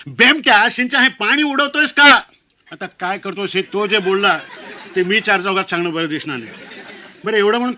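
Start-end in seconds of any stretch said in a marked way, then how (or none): 0.1-2.2 loud, high scolding shout; high-pitched outraged uncle; uncle's angry yell. Acted. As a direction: bellow it as a furious uncle in front of everyone. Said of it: "सगळ्यांच्या देखत ओरडला".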